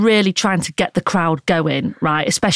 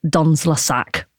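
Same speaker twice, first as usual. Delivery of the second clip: French phrase; 3 semitones lower, slower than usual. Retold or imitated. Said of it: "as the French say".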